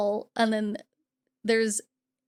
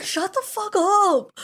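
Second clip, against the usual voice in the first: mock angry snap; 9 semitones higher, 5 dB louder, slower than usual. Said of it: "He's like".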